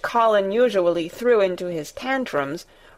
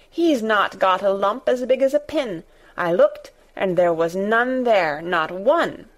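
indignant. Acted. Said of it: "in her fierce indignation".

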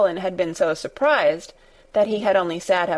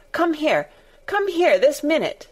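shouting; 7 semitones higher than usual. Acted. Colin keeps shouting at Dickon.

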